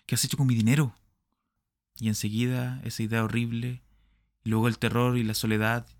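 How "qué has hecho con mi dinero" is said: only slightly raised, urgent question; a half-raised repeat of the demand; mild shout. Acted. Smith asks Nettie again, a milder raised voice. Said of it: "gritó".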